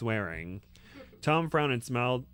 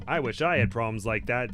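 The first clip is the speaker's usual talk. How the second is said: lightly done, louder Brooklyn accent; 5 dB louder than usual. Shown as a demonstration. Wizard joking about the visitors' problem, light Brooklyn accent. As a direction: give it a touch of Brooklyn. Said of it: "with a Brooklyn accent".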